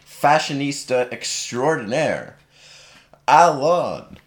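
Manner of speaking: big showman introduction, name drawn out; kids party magician. Acted. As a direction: announce him like a stage act. Grand introduction of the guest.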